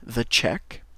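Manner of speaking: "the check" slow, rising; teacher modelling "the check" for French learners; English model word. Shown as a demonstration. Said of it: "et en anglais".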